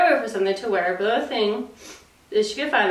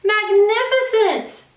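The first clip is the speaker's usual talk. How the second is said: mock amazement; 12 semitones higher, 4 dB louder, much slower than usual. Elizabeth flatters dragon.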